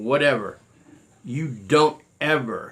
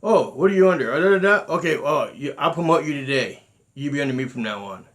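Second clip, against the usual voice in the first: imitating the founder. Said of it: "Same thing".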